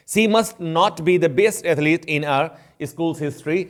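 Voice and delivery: very slow, careful English example sentence; slow example read. Shown as a demonstration. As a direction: read each word out slowly for the class. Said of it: "teacher reads example slowly". (धीरे-धीरे उदाहरण वाक्य पढ़ना)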